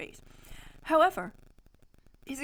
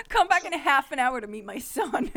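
laughing while reading; 3 semitones higher, 6 dB louder than usual. Real, not acted. Reader cracking up at Lucius's invitation to meet his son, laughing. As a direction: struggle through the line laughing.

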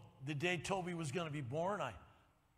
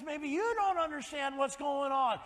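higher, louder, shouting faith back at him; defiant retort; 9 semitones higher, 7 dB louder than usual. Retold or imitated. Greg answering the doctor in a higher, loud defiant shout. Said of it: "Greg says".

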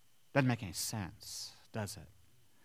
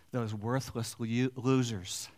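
sneering contempt; 3 semitones lower, slower than usual. Acted. Voicing resentful workers.

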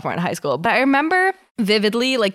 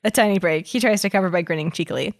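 story narration. Acted. Reads fanfic aloud.

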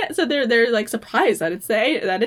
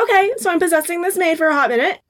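laughing; 8 semitones higher, 4 dB louder than usual. Retold or imitated. Voicing Ruby, laughing.

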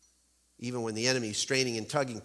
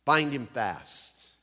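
fierce witch voice; 3 semitones higher, 3 dB louder, much slower than usual. Acted. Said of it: "gave a wild, fierce laugh".

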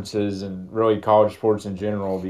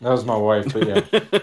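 underwater. Real, not acted. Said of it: "it sounds like he's trying to talk underwater".

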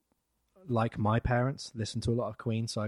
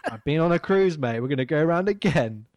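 louder, higher hammed Scottish voice; Scottish accent; 5 semitones higher, 7 dB louder than usual. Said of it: "Your Scottish accent's way better".

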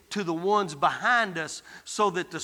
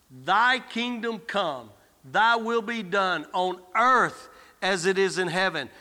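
slow prayer. Shown as a demonstration. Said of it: "Pray this way".

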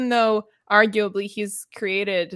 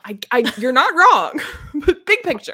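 laughing; 8 semitones higher, 8 dB louder than usual. Real, not acted. Summing up the Geralt rant to co-host, laughing. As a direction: laugh through it, higher and louder.

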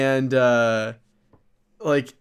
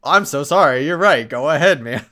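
meek guard apology; 2 semitones higher, 8 dB louder than usual. Retold or imitated. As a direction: play the flustered guard caving instantly.

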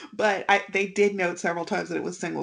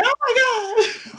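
alarmed husband. Retold or imitated. Husband voiced seeing her fall.

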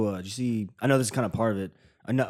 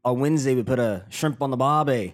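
light attempt at an Australian accent; lightly put-on Aussie voice; 3 semitones higher, 4 dB louder than usual. Shown as a demonstration. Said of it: "That wasn't bad".

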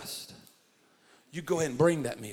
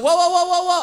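loud calming whoa; 11 dB louder than usual. Retold or imitated. Calming the screaming woman.

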